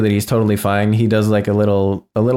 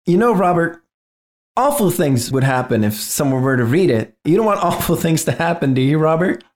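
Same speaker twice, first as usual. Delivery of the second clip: veiled threat; 5 semitones higher than usual. Acted. Game master voices Atlas warning Robert.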